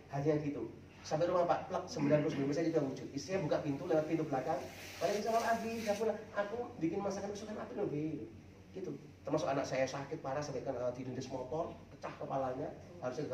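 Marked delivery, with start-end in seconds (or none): 5.0-8.3 higher-pitched, lightly voiced welcoming wife; happy wife. Wife welcoming Abi home to his favourite dish, lightly imitated, happy. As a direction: imitate a wife sweetly greeting her husband. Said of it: "Jadi saya senyum bahagia".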